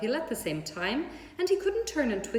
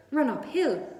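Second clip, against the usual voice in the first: a bit higher, louder bleat of advice; sheep crying out; 5 semitones higher, 5 dB louder than usual. A narrator's reading. Sheep calling advice to Wilbur. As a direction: call it out like a sheep. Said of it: "cried the sheep".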